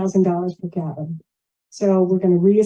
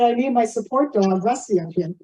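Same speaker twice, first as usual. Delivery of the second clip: louder repeat; 2 semitones higher than usual. Real, not acted. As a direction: say it again, louder, so the room hears. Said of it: "I said".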